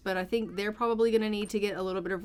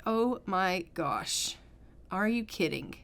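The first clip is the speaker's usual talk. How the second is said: slow, drawn-out mock dismay; exasperated disbelief; 2 semitones lower, slower than usual. Patient learns the epidural failed, slow exasperated disbelief. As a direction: stretch it out in weary disbelief.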